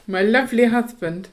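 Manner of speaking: speaking with a lisp. Real, not acted. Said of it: "Why do you say that with a lisp?".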